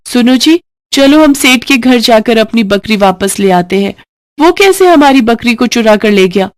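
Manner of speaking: a wife fuming at the theft; indignant wife. Acted. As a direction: Shanti demands they go fetch the stolen goat, high and outraged.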